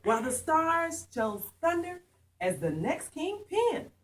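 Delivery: rhythmic picture-book narration, climbing in pitch; animated story read-aloud. A narrator's reading. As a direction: read it to children with rising drama. Reads own picture book to children.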